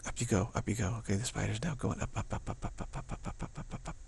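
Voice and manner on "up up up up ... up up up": tiny repeated ups, dwindling softer; hushed, playful staccato trailing into near silence; fading away. Pretend. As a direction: count the spider upward under your breath, evenly fading out. Voicing the spider climbing up.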